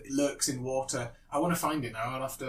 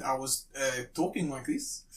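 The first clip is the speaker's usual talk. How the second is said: lightly put-on South African voice; South African accent; 2 semitones lower, 5 dB quieter than usual. Shown as a demonstration. Drunk husband in a lift with his wife, South African accent. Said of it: "very, very South African accent".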